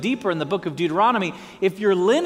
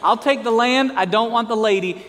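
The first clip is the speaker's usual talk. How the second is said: emphatic repeat; 3 semitones higher, 3 dB louder than usual. Retold or imitated. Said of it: "Are we tracking now?".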